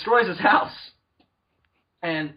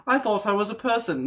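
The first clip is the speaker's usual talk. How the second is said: acted wounded actor; 5 semitones higher than usual. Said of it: "He's just like".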